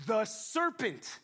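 slow, drawn-out blaming; excuse-making Eve. Acted. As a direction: point at the snake, slowly. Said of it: "Here's what Eve says".

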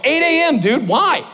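high-pitched puzzled answer; puzzled reply. Retold or imitated. Student answering roommate about final time, puzzled.

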